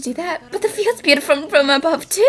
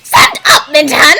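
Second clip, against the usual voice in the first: loud command; 8 dB louder than usual. Acted. Urging him to stand.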